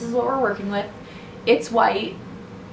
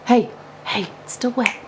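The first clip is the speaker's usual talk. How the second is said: calling out to the cat; 5 semitones higher than usual. Real, not acted. Cat jumping on wet paint.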